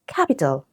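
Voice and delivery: "capital" stressed on CAP; first-syllable stress. Shown as a demonstration. Teacher giving a root-word example, first-syllable stress. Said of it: "first syllable".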